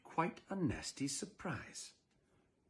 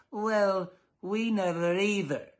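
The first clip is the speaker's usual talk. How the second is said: mild deadpan retort; 7 semitones higher, 5 dB louder, slower than usual. Acted. Mister Dullard replying.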